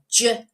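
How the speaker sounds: J as a short "juh"; J sounded "juh", not "jay"; letter sound. Shown as a demonstration. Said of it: "starts with the J sound".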